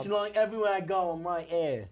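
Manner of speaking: comic put-on English accent. Bob the Ghost explains himself, English accent. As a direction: play it as a Cockney-ish ghost. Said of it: "You like my English accent?".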